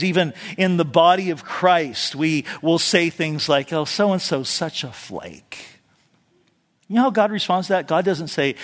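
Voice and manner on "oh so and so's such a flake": slow, softer dismissive tone; mock a churchgoer's sneer; dismissive gossip.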